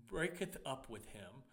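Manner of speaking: mock voice of God, loud and stately; lightly put-on grand biblical voice; Morgan Freeman. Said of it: "Morgan Freeman speaking King James to me".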